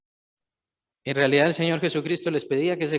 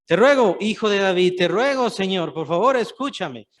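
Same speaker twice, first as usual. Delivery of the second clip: pleading cry; 3 semitones higher, 4 dB louder than usual. Acted. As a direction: cry out like a desperate mother begging. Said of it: "dando gritos".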